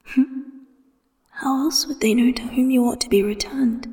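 a lover murmuring his claim. A narrator's reading. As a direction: whisper it close and playful. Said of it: "Wen Kexing murmurs".

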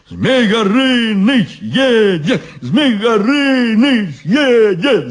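high, chanted announcement; excited shouting. A narrator's reading. Guards hail the arriving dragon, excited cries. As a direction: cheer it twice, stretched and high. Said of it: "закричали они".

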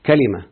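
"كلمة" as ka-li-ma, a then i; kalima, fa'il pattern. Shown as a demonstration. Teacher citing the example word, "كلمة" pronounced ka-li-ma. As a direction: say "كلمة" in three clear syllables. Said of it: "أي كلمة على وزن فاعل".

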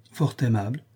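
understated, indifferent agreement; brief, noncommittal reply; feigned indifference. Acted. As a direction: echo it as if you hardly care. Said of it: "j'affectais beaucoup d'indifférence".

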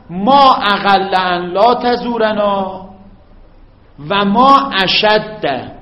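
very slow, each word drawn out; slow dictation. Shown as a demonstration. Teacher dictating to students, very slow and clear. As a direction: dictate it slowly for the students to copy. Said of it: "درست شد؟".

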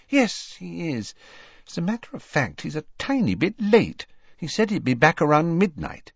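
brisk, chatty mother of the house; motherly witch voice. A narrator's reading. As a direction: talk like a proud busy mum. Mrs Weasley answering.

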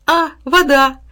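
high, loud glad exclamation; excited and bright-eyed; delighted discovery. A narrator's reading. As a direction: burst out on spotting a friend. Boy delighted to see water.

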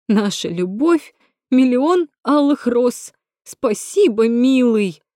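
high, slow, sugary parody of the other woman; mock her in a simpering voice; mocking mimicry. Natasha mimics the rival's sweet caption to Rom. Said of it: "Кривляется, коверкая голос".

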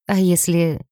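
hesitant, trailing off mid-question; a touch of hesitation before breaking off; faltering. A narrator's reading. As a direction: start to ask, then falter. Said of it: "Я запнулась".

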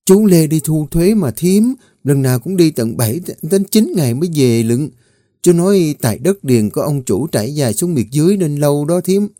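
eager little maid sharing news; gossiping young servant. Acted.

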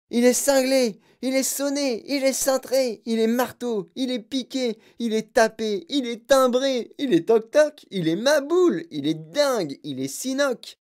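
high-pitched volley of accusations; howling outcry. A narrator's reading. Parents howling in chorus that he's mad, shouting. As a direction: cry each one out high, like a clamouring crowd. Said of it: "se mirent à hurler en chœur".

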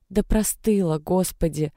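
lightly voiced hoarse grumbling; a hint of a sick girl grumbling; hoarse grumble. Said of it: "пробурчала сиплым голосом Даша". (слегка сиплое бурчание)

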